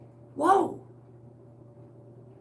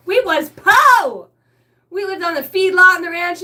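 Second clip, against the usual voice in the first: mock hillbilly; 5 semitones higher, 9 dB louder than usual. Hammed-up hick voice.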